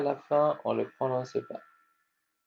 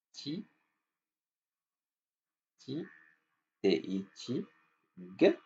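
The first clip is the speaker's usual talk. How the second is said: slow sounding out; 6 dB quieter, much slower than usual. Shown as a demonstration. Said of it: "teacher sounding out syllables".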